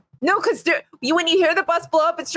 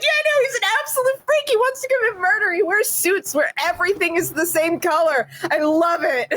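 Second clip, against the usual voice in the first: gushing, faster and higher, mock delight; positive tone; 3 semitones higher than usual. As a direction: rave cheerfully about something awful. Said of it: "things I would say in a positive tone".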